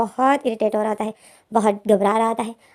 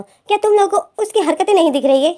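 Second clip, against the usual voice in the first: high, disbelieving laugh through the words; incredulous half-laugh, higher; laughing protest; 8 semitones higher, 3 dB louder than usual. Acted. Win protests his friends scolding him.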